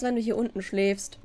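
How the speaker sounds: normal talking voice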